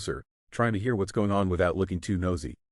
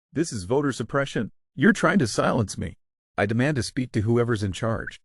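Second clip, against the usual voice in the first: mock-outraged, pitched higher and louder; squeaky indignant Karen, higher and louder; voice up an octave; 4 semitones higher, 3 dB louder than usual. Karen demanding the manager, higher and louder outrage. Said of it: "Karen's voice goes up another octave".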